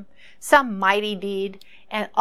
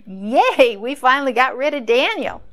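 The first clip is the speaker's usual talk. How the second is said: louder, gleeful mock cheer from the plotters; excited cheer; 3 semitones higher, 5 dB louder than usual. Plotting officials cheering as Daniel is gone, gleeful. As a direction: cheer like schemers who just won. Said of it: "I'm sure they were excited".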